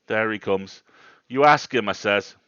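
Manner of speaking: put-on worked-up rustic old man, punching words loudly; old countryman getting quite excited. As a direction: insist on it to a doubter. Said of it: "getting quite excited that I didn't disbelieve him".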